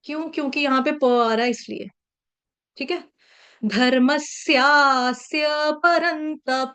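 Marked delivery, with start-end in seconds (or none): 3.6-6.7 slow, with परन्तप ending in a full प, not a half प; slow and clear, a full प at the end of परन्तप; careful pronunciation. Shown as a demonstration. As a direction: sound the final प of परन्तप fully. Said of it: "तप बोल के छोड़ नहीं देंगे".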